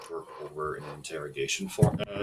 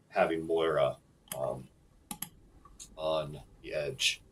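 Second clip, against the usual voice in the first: game master's closing scene; 6 dB louder than usual. Acted. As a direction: set the cliffhanger, phrase by phrase.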